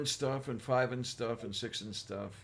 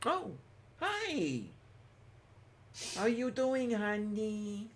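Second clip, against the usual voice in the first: much higher, sugary hello; sing-song greeting; 8 semitones higher, 4 dB quieter, slower than usual. Real, not acted. Host greets a friend joining the call, much higher sing-song hello. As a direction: sweeten the greeting right up.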